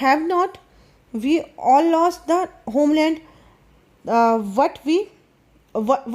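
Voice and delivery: slow, careful reading aloud of the English text; slow story reading. A narrator's reading. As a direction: read each phrase slowly for the class. (धीमी कहानी पढ़ाई)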